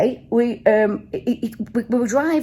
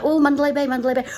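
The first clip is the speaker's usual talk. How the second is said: higher, mock-eager quiz answer; like eager kids; 4 semitones higher, much faster than usual. Passengers answering the driver's quiz, like eager kids. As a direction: blurt it like a keen schoolkid. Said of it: "we were like kids".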